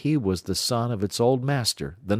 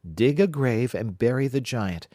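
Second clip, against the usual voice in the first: slightly higher, gracious fairy; fairy lady; 4 semitones higher than usual. Acted. Fairy lady lightly voiced praising Jack. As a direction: praise him like a noble fairy. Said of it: "said she".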